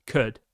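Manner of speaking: a lone falling could; stressed could. Shown as a demonstration. Fan on a live stream underlining could again. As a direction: drop could as a warning. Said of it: "emphasise the word could".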